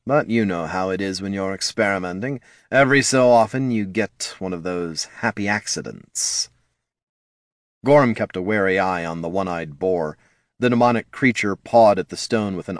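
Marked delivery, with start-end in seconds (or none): 0.0-6.5 mildly smug, casual boasting; understated self-satisfaction. Acted. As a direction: brush it off with false modesty. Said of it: "said the Lich smugly".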